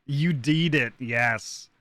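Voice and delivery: put-on light English accent. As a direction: say it like a Brit. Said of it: "but in an English accent".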